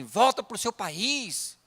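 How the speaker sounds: mildly heated mock scolding; retold insults. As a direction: imitate a hostile local telling foreigners off. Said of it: "xingar, falar assim".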